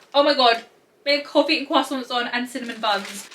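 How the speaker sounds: high, loud burst of delight; excited squeal. Real, not acted. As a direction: gush like you just saw something adorable. Excited about pajama print.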